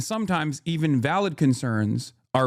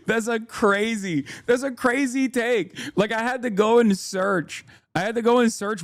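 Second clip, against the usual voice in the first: much higher, disbelieving; incredulous; 8 semitones higher than usual. Real, not acted. Streamer telling chat the accusation is crazy, much higher and disbelieving. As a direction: react like it's unbelievable.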